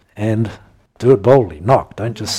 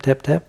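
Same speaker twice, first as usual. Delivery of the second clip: a light, higher mock tap-tap, barely there; timid tapping; 5 semitones higher than usual. Preacher mimicking a timid knock on the door. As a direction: sound out a shy little knock. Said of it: "doesn't mean timidly tap".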